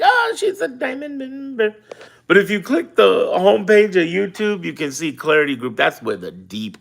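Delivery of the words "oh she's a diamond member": high, mocking tone; mock impressed voice. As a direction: imitate the impressed gossip. Mocking someone's reaction.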